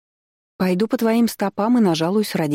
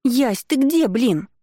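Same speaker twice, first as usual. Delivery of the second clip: higher, urgent yell into the phone; shouting down the phone; 5 semitones higher, much slower than usual. A narrator's reading. Sister shouts down the phone, voice cracking. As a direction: call out, voice cracking. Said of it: "кричит в трубку срывающимся голосом".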